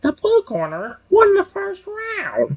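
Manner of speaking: high-pitched, sing-song delivery. Showing how they mimic the Pokemon Battle Revolution announcer while watching videos: imitating the Pokemon Battle Revolution announcer. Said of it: "mimic the announcer".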